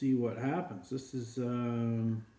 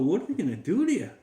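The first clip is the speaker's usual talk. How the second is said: higher, louder and fast, a hammed-up gasp of worry; mock alarmed; 7 semitones higher, 5 dB louder, faster than usual. Dog asks his neighbour about his fate, in hammed-up alarm. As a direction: play up the dog's shock.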